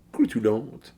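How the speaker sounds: Croutillante said quickly in a French accent, rising at the end like a question. Shown as a demonstration. A beer reviewer tries the French word again in a French accent, rising. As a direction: toss off Croutillante in a French accent with an unsure lift. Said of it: "I'm doing it in a French accent".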